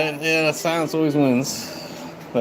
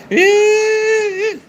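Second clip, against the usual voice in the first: yell back; 4 dB louder than usual. Real, not acted. Answering Steve, calling out.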